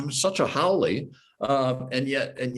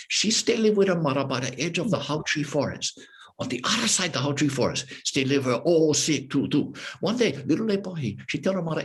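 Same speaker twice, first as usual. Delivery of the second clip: lively Hawaiian pidgin tale with high, bouncy character voices; Hawaiian pidgin storytelling; 3 semitones higher than usual. Shown as a demonstration. Guest performs a pidgin story sample for the interviewer, in animated Hawaiian pidgin. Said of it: "I can give you a, a, a sample".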